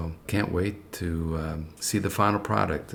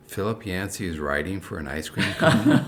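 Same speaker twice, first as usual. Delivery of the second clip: amused, louder mock disbelief with a laugh; 2 semitones higher, 5 dB louder than usual. Retelling his surprise at the famous author's reward, laughing. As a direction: chuckle through the incredulous question. Incredulous retold thought, laughing.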